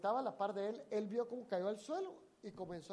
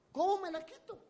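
high, louder cry of despair; desperate plea; 11 semitones higher, 5 dB louder than usual. Retold or imitated. Preacher voicing the anxious man, a desperate high cry. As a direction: beg for relief, pitched up high.

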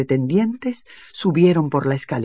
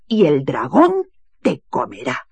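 voiceless threatening whisper; 4 dB louder than usual. Acted. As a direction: breathe the threat into her ear. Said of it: "le susurró al oído". (susurro amenazante)

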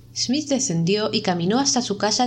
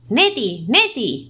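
calling her name, louder each time; rising panicked calls; 3 semitones higher, 5 dB louder, much slower than usual. A narrator's reading. Smith calls his unmoving wife, louder with fear. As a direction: call louder and louder, growing afraid.

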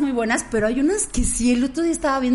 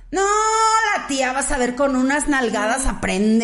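macho cowboy voice; slower than usual. Retold or imitated. Cowboys quoted in film plot.

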